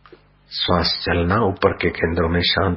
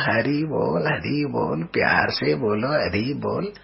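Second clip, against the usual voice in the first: high, rising Hari bol; high sing-song chant of Hari bol; pleading call; 6 semitones higher than usual. Acted. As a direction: lift each call upward in devotion. Boy calls Hari while beaten.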